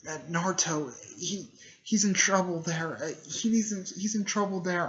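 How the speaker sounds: high, stumbling worried voice; about to cry. Retold or imitated. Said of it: "she's gonna start crying".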